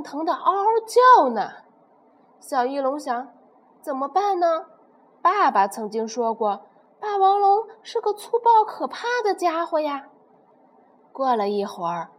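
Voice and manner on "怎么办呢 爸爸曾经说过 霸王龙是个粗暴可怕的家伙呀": high, uneasy little voice; baby pterosaur afraid of the T-rex; worried baby pterosaur. Acted. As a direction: fret to yourself in a small voice.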